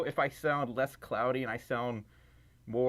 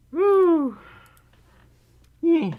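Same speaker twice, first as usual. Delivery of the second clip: excited whoop; 11 dB louder than usual. Real, not acted. Warming up, testing the mic.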